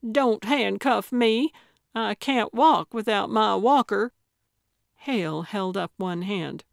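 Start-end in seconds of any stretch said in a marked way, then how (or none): 0.1-4.1 high, protesting plea; alarmed complaint to the deputy; crying out. Acted. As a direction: plead loudly with the voice lifted. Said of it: "she cried".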